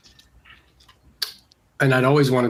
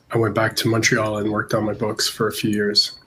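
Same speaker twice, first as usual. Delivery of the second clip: congested, stuffy voice; talking through a head cold; blocked nose. Real, not acted. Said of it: "I have kind of a cold, so I'm kinda congested".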